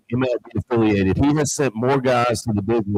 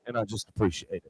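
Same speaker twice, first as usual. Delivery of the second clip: choked up; 11 dB quieter than usual. Real, not acted. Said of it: "didn't mean to get emotional".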